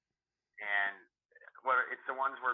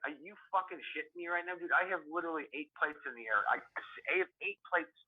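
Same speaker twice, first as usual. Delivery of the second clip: retold indignant comeback, pitched higher; indignant retort; 4 semitones higher than usual. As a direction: replay an incredulous protest at a coworker. Retold quarrel with lazy coworker.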